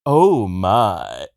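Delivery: low, drawn-out celebrity catchphrase; mock-scandalized low exclamation; George Takei. Reacting to the gossip, mannered low impression. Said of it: "You sound like, uh, George Takei".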